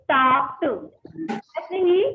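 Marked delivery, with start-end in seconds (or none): 0.1-0.6 tasked with the ending spoken as a short T. Shown as a demonstration. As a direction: say tasked ending in a crisp T, no extra syllable. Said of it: "we have to pronounce it".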